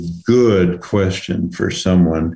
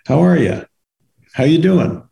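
breezy, much higher sing-song how are ya; perfunctory greeting; 8 semitones higher than usual. Retold or imitated. Greeting someone in passing, automatic chirpy high greeting. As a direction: toss it off without meaning it. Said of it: "a question we ask almost every day that we don't really mean".

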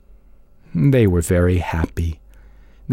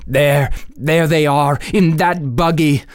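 slow, urgent pointing out; urgent sighting; excited father; 5 semitones higher than usual. A narrator's reading. Stimson spots the runaways.

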